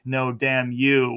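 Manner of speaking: slow, sly mock reproach with a wink in it; lightly played sly Jesus. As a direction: drag it out knowingly, like you're in on the joke. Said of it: "with, like, a sly wink".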